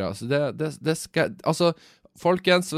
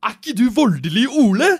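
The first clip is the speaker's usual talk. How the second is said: rising, high, louder and louder recognition; excited fan; 10 semitones higher, 7 dB louder than usual. Retold or imitated. Twenty-something fan recognising the vlogger, climbing into excited high squeal. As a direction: build into a thrilled squeal of recognition.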